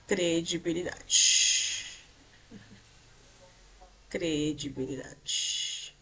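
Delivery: very drawn-out, syllables stretched; lingering syllable-by-syllable delivery; slow dictation. Real, not acted. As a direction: dictate slowly while writing it down. Dictating while writing on the board.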